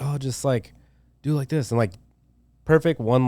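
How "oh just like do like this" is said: imitating a laid-back mentor, slightly higher; casual, chill impression of an easygoing teacher; super mellow. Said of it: "like, super mellow".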